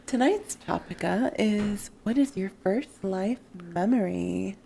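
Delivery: slow, drawn-out mock-sultry announcement; put-on sexy voice. Announcing tonight's topic on co-host's request, put-on sexy voice. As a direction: purr it slowly, playfully seductive. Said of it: "Do it in your sexy voice".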